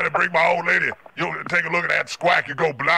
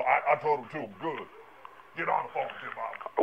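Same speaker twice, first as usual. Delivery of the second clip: quoted line dropped much softer, half to himself; quoted aside; 2 semitones lower, 10 dB quieter than usual. Retold or imitated. Caller quoting someone else to the shop, much softer. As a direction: mutter the quoted words off to the side. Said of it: "They go".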